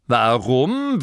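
Warum? thrown back with a falling, scornful tone; mocking duke repeating; incredulous echo. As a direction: repeat his question as if it were absurd. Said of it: "wiederholte der Herzog".

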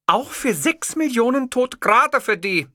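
indignant female reporter; shocked interviewer. Acted. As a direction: ask in disbelief. Interviewer's sharp question.

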